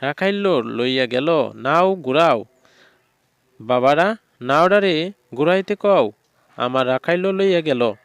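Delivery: mild mock cry of an old woman begging the boatmen. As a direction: call out as a frantic old woman. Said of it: "এক বুড়ি চিৎকার করতে শুরু করল".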